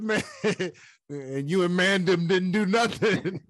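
put-on quoting Kamaru in a London accent; london roadman accent. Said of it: "they try to use different accents".

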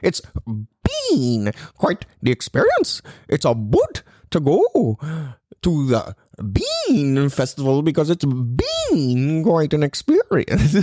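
put-on light Canadian accent, slow and drawn out; a hint of a Jordan Peterson Canadian accent. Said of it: "Jordan Peterson type accent or slash Canadian accent".

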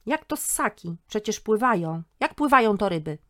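high, loud offended protest; he refuses to be corrected; indignant old man. Acted.

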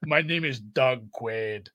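put-on slow, thick Austrian accent; lightly imitating an Austrian accent; Arnold Schwarzenegger. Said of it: "He has this thick Austrian accent".

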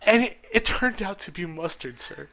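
a mother griping to the restaurant manager about mustard, mock indignant; mock angry mom. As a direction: ham up an irate mother demanding the manager.

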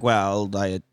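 lightly voiced mob boss. Retold low mob boss voice.

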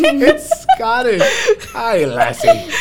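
laughing, high, slow mock Scottish greeting; a hammed-up Scottish brogue through laughter; teasing his daughter in a silly Scottish voice. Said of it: "That's, like, Scottish".

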